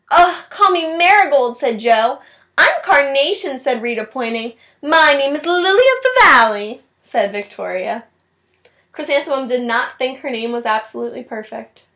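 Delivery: put-on expressive storybook read-aloud for kids; reading to children. A narrator's reading. Teacher reading a picture book to her class, expressive read-aloud. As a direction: read it like story time, voicing each child.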